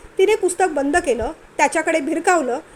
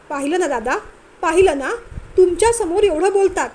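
rising, louder tearful wail; wailing complaint; 5 semitones higher, 5 dB louder than usual. Acted. Wife wailing to her in-laws about her husband, tearful. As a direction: complain to the elders almost bawling. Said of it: "जवळजवळ तिने भोकाड पसरलं होतं".

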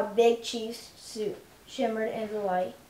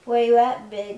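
calling out; 2 semitones higher, 11 dB louder than usual. Acted. Calling back across the street.

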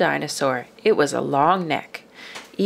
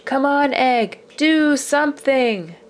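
big frustrated shout at the egg, slower on the end; 7 semitones higher, 4 dB louder, slower than usual. A narrator's reading. Tired father shouting at the unhatched egg. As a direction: yell it right into the egg.

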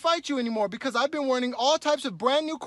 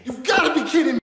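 exasperated shout; frustrated shout; 4 semitones higher, 7 dB louder than usual. Acted. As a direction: yell it, fed up with waiting. Frustrated at hotel desk.

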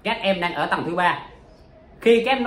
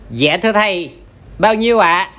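pupil asking; 7 dB louder than usual. Acted. Pupil asks about fees.

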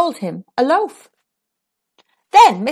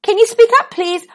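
mock deaf request; 10 semitones higher, 3 dB louder than usual. Baker feigns deafness.

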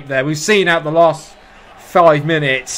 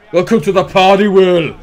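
louder, higher welcome to the party; excited; 5 semitones higher, 8 dB louder than usual. Shown as a demonstration. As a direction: belt it like a commentator.

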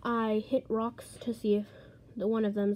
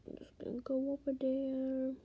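hushed, breathy aside; whisper; 6 dB quieter than usual. Real, not acted. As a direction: whisper it under your breath. Sneaking up to villager.

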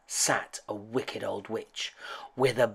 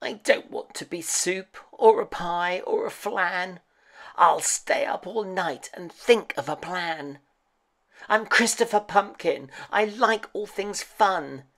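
high little pumpkin voice, fretting; earnest high-pitched pumpkin, anxious but plucky; worried friendly pumpkin; 7 semitones higher than usual. A narrator's reading. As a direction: think aloud in a high, plaintive cartoon voice. Pumpkin frets and plans.

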